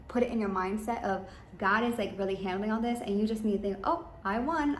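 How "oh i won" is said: joyful exclamation. Pretend. Imagined victory thought.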